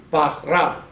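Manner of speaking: BARA split evenly as ba-ra; teaching demo of BARA, syllable by syllable; broken into syllables. Shown as a demonstration. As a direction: say BARA in two distinct syllables. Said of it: "how to break the word up".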